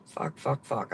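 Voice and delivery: soft unvoiced string of curses; frustrated whisper while parking; whispered swearing. Real, not acted. Struggling to park, swearing alone.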